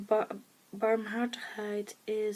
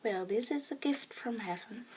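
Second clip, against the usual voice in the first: tearful whisper. Real, not acted. Moved by her mother's note.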